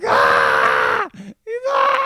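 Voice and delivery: piercing high screaming cries; banshee scream. Retold or imitated. Tackled shoplifter screaming on the floor, banshee shrieks. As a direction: scream like you've been shot. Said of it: "he starts screaming like a banshee".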